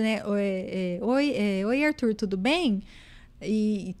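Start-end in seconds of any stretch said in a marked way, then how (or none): 0.3-2.8 said quickly. Shown as a demonstration. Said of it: "a gente até fala, é, mais rápido".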